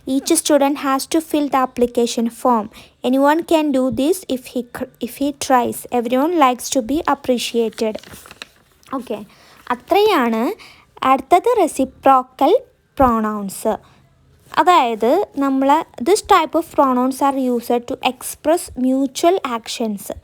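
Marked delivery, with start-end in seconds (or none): 0.1-8.0 each word spaced for writing; slow dictation. Shown as a demonstration. Teacher dictating a sentence to students, very slow. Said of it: "example തന്നെയാണിത്". 16.0-20.2 each word spaced for writing; slow dictation. Shown as a demonstration. Teacher dictating a sentence to students, very slow. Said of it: "dictating the definition".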